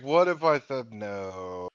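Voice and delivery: slow, low mock-deadpan; deadpan imitation. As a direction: drag out the joke with no joking inflection. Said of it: "said it completely deadpan with no fucking inflection".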